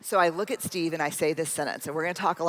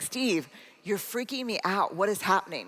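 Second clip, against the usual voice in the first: mildly freaked-out, stretching it out; exasperated bafflement; 3 semitones higher than usual. Retold or imitated. Wife demands answers from her husband, exasperated and baffled.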